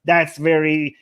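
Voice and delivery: low mock disapproval; sarcastic. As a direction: pretend to be appalled, fading at the end. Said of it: "I'm being sarcastic".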